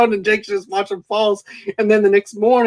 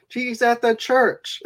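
imitated movie character; 5 semitones higher, slower than usual. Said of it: "he goes".

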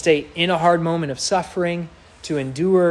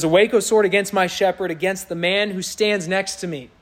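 prophetic proclamation; 4 semitones higher than usual. Acted. Reading prophecy aloud, repeated.

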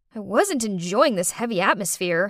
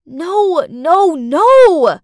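loud, higher no no no; desperate protest; 6 semitones higher, 12 dB louder, much slower than usual. Acted. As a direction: cut off the lie in panic. Narrator protesting the accusation.

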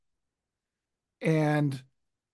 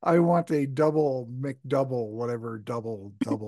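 surfer dude voice. Pretend. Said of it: "makes you speak like a surfer".

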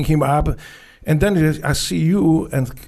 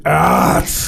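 1 primal yell; 4 dB louder than usual. Retold or imitated. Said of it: "everybody was leaving with".

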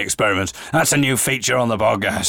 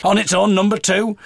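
bingo caller; 7 semitones higher than usual. Retold or imitated. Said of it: "I was shouting all the numbers out".

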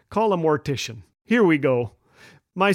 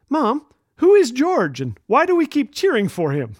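a hint of a puzzled little girl, starting high; slightly imitated child's question, higher opening; lightly voiced child; 5 semitones higher than usual. Acting his puzzled young daughter.

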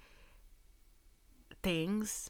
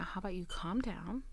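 softer, whispered calming advice; soothing hush; 4 dB quieter than usual. Retold or imitated. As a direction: talk him down gently. Telling him to calm down.

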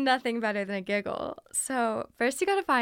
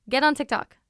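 louder, higher, punchy command; emphatic advice; 4 semitones higher, 8 dB louder than usual. Real, not acted. Urging someone wanting to grow social media, emphatic command. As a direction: drive the advice home loudly.

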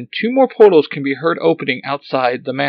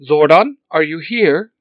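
Alpha robot voice; 3 semitones higher, 7 dB louder than usual. Acted.

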